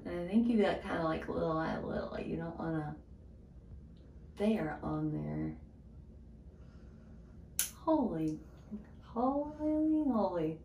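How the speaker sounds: talking while pulling teeth; tool in mouth. Real, not acted. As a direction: lip pulled down. Seen 0: Purple tool hooked on teeth, hand pulling lip while she talks.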